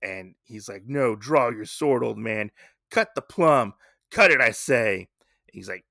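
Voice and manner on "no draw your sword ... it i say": mildly angry villain's orders; retold mounting anger. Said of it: "getting more and more mad".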